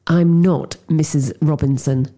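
through clenched teeth. Acted. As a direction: hold the jaw tight and push the words out. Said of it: "she said through clenched teeth".

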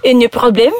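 mock French accent. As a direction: try the line in French. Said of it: "in the French accent".

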